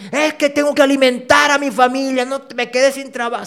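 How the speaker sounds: a hint of a caught shoplifter pleading; pleading excuse. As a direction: beg off the blame as if caught. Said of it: "le dicen".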